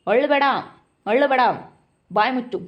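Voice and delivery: stern command. Acted. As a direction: scold a crying child. Father orders crying child to stop.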